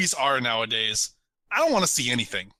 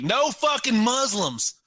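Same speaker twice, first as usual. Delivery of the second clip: mock bigot yell; 9 semitones higher, slower than usual. Mocking a bigoted movie.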